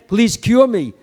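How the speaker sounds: quick, pushy mock demand; a hint of an entitled complainer. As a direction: insist on your rights, rushing a little. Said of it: "He didn't demand".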